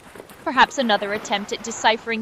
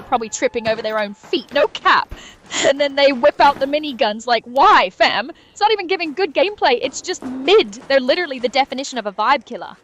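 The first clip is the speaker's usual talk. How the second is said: Gen Z streamer; 3 dB louder than usual. Pretend. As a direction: go full Zoomer slang, pitched up and excited. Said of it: "go extra, like, Gen Z Twitch streamer".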